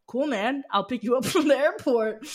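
amused, breezy laughter; laughing. Retold or imitated. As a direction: chuckle through the friend's easy reply. Voicing friend's easy reply.

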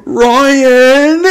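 loud, high gleeful call of the name. Retold or imitated. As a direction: yell it to tell on him. Kid calls out to expose.

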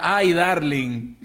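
drawn-out Latina accent in English; slow, stretched Latina-accented endearment; Sofía Vergara. Shown as a demonstration. Friend showing how to win him over, slow Latina accent. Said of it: "con un acento así, Sofía Vergara".

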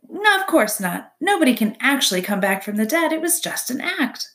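a proud little stage performer explaining her trick; hint of a theatrical opossum; opossum character voice. Opossum voice, chatty and high.

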